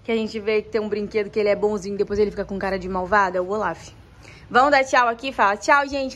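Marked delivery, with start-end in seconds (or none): none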